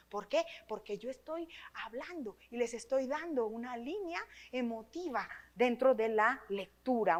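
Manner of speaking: normal talking voice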